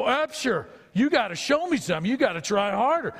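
imitating a coach pushing his player to try harder; pushy football coach. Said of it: "And he'd go".

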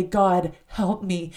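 heartfelt plea, slowing on the last words; earnest crying out. Acted. Host reading an author's call to cry out, earnest plea. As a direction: plead and mean it. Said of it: "and mean it".

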